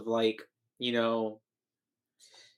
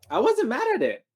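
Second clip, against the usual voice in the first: giggly whisper; 9 semitones higher than usual. Real, not acted. Amused verdict.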